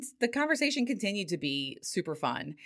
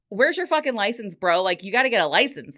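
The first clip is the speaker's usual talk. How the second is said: mock scolding; 3 semitones higher, 5 dB louder than usual. Scolding date in story.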